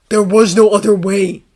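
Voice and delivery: loud, impassioned denial; desperate insistence. A narrator's reading. Harry defending his choice to Draco, desperate loud insistence.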